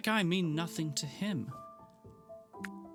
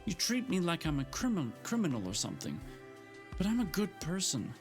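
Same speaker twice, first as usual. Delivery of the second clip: high, strained near-tears rant; fighting back tears while accusing; unsteady tearful voice; 5 semitones higher than usual. Acted. Gemma to Frank, near tears and indignant. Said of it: "her voice sounded unsteady".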